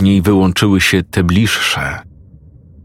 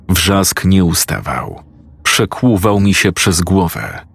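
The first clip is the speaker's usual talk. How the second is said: ordinary delivery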